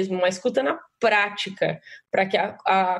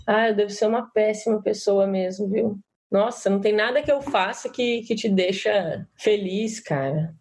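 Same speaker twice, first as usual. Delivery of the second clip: mild mock guilt, sinking at the end; self-blaming. Shown as a demonstration. Participant demonstrates absorbing the blame to partner, self-blaming. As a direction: take all the blame, deflated. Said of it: "eu absorvo a culpa".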